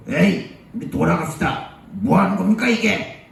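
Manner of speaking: high, softened mock protest; angry crowd. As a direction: protest indignantly, held back in volume. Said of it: "막 저기 사람들이 화가 났죠".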